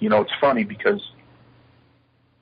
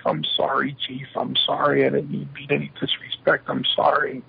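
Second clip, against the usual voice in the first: higher-pitched, placating apology; retold apology; 4 semitones higher than usual. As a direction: replay yourself apologising to the boss. Apologising to angry chief.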